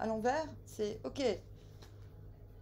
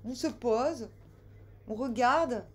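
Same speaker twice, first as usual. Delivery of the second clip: put-on southern French accent; 4 dB louder than usual. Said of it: "j'ai pris l'accent du sud".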